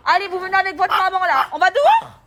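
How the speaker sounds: high, loud sing-song pet talk. Real, not acted. Owner greeting her excited dogs in baby talk. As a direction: coo at the dogs like toddlers.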